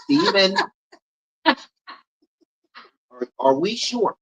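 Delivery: high, loud teasing call-out; mock doubt. Host teasing Stephen about being sure, mock doubt. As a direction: question him in exaggerated high-pitched disbelief.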